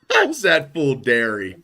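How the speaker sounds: slow mock California accent; Cali accent. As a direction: lightly mimic a Californian, drawn out. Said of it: "the Cali accent".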